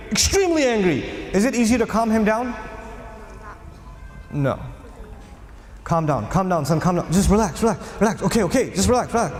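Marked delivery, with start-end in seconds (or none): 4.3-9.3 soothing. Retold or imitated. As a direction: coax him down gently. Soothing an angry young man.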